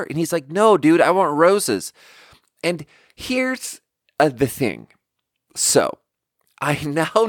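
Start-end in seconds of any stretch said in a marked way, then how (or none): 0.5-1.9 louder, higher retold insistence; acted-out impatient correction; exasperated customer. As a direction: mimic a customer fed up with questions.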